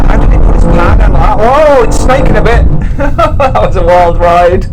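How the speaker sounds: thrilled, breathless shouts; whooping through a wild launch; excited. Real, not acted. Launch control run, car snaking.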